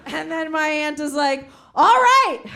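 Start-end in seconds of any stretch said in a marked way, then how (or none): 1.7-2.4 caught out. Retold or imitated. Aunt caught out.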